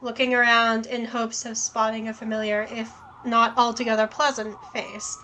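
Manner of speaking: even game-text read; story narration. A narrator's reading. Reads the game text aloud.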